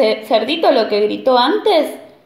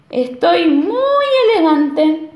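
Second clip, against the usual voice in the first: vain wolf; 4 semitones higher, slower than usual. Acted. Wolf admiring himself.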